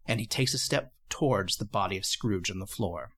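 low, measured storyteller narration; hushed-toned dramatic narration, pitched low; game master's scene setting. A narrator's reading. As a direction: set an ominous scene, deliberately paced.

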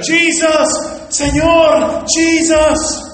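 high, pleading cries to the Lord; calling on Jesus. Retold or imitated. Woman at gunpoint calls on Jesus, high cries.

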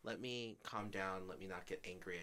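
retold calm self-talk, softening as it goes; calm, soft. Speaker recalls trying to be understanding in a fight, calm. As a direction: gently talk yourself down. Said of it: "I spoke calmly. I spoke softly".

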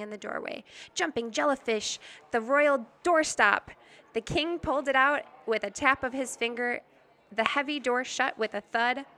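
expressive picture-book narration; story read-aloud. A narrator's reading. Reader telling listeners of the cold king's castle, story read-aloud. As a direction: read the tale out with lively emphasis.

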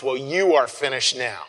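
mildly accusing, acted out; mock accusatory. Shown as a demonstration. Preacher imagining Jesus addressing the Romans, mildly accusatory. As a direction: point the blame, half in earnest. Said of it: "he doesn't say in an accusatory way".

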